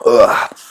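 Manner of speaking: sputtering cough from the wrong pipe; choking on a drink. Real, not acted. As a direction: choke on a sip. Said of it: "Went down the wrong pipe".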